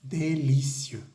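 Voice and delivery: Délicieux, slow, final eux rounded; slow French model. Shown as a demonstration. Teacher models délicieux for learners, slow. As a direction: draw out Délicieux, mouth nearly closed. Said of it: "se pronuncia E".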